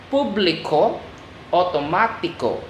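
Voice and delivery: "público, automático" in Spanish, each ending in "ee-koh"; Spanish pronunciation. Shown as a demonstration. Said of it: "the accent is on the last syllable".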